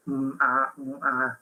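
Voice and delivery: demonstrated stalling hums and ahs; hesitant fillers. Shown as a demonstration. Teacher showing what not to do in pauses, hesitant fillers. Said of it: "filling those with fillers".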